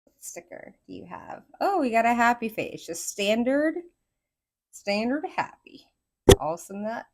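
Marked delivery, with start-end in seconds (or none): 1.6-5.9 Southern accent. Real, not acted. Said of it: "Southern accent comes out".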